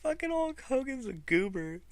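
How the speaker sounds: high squeaky laugh through the words; laughing fit. Real, not acted. Fan cracking up about Hogan, squeaky laughing. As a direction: giggle uncontrollably while talking.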